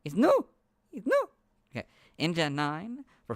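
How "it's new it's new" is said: each It's new higher and louder, up to a squeal; excited rising squeal. Pretend. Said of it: "repeated, pitch climbing".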